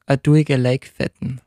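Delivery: langsam vorgesagtes Pinzgauer Dialektwort; „a duige Leikfetten“ gedehnt im Pinzgauer Dialekt vorsprechen; Salzburger Dialekt. Shown as a demonstration. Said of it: "ich lerne Leuten immer gern Dialektwörter". (im Salzburger Dialekt, langsam)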